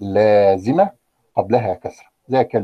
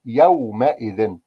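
slow word demo; much slower than usual. Shown as a demonstration. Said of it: "عندما تضاف إلى إذ".

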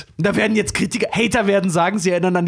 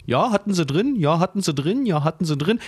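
nerd ticking off a checklist. Retold or imitated. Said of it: "Hardcore-Nerds ... mit ihrer kleinen Checkliste".

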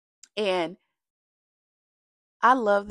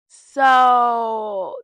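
choked-up so; 8 dB louder than usual. Real, not acted. Emotion overtaking voice.

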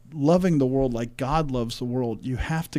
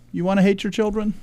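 mock divine voice; 7 semitones higher, faster than usual. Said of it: "God's judgment on our society is basically say".

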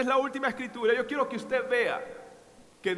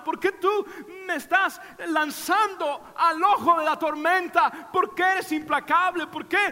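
put-on high, pleading boy's voice building to a cry; child's anguished plea; 6 semitones higher than usual. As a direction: beg your father to make the pain stop. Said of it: "él quería decirme".

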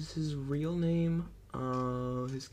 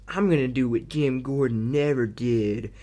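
louder mock dramatic delivery; Matthew Modine's line; 6 dB louder than usual. Reviewer mocking Modine's stiff line reading. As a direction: overplay it like a stiff movie villain. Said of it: "he goes".

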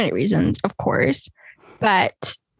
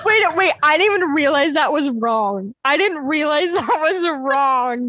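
laughing disbelief; 4 semitones higher than usual. Real, not acted. Laughs at a wrong title.

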